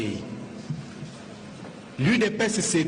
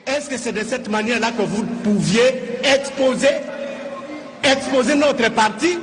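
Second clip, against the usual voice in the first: louder, heated demand; indignant louder protest; 3 semitones higher, 5 dB louder than usual. Real, not acted. Deputy confronting the president over exposing his party, louder and indignant. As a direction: push the question out with rising anger.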